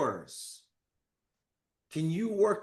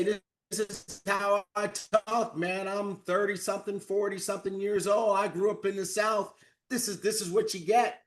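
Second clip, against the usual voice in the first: mock Southern drawl; 5 semitones higher, 3 dB louder than usual. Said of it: "the most incredible Southern drawl".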